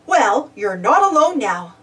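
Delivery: a touch of kind reassurance; mildly comforting; kindly. A narrator's reading. Bob to frightened Muck, kindly. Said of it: "Bob said kindly".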